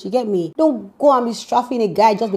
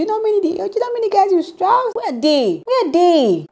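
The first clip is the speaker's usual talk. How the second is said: much higher, squeaky mock-incredulous questioning; mocking challenge; 12 semitones higher than usual. Challenging the baby girl about past guys, high mocking disbelief. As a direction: needle her like you can't believe it, voice way up high.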